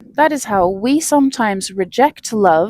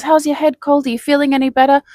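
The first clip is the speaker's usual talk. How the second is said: higher, friendly concern; caring colleague; 5 semitones higher, faster than usual. Retold or imitated. Coworker asking how she feels, higher and friendly. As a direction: ask after her cold like a kind coworker. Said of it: "He goes".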